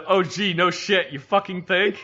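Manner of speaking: slow, sarcastic, with a laugh; sarcastic retort. Retold or imitated. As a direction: drip sarcasm on no shit. Sarcastic reply to squad leader.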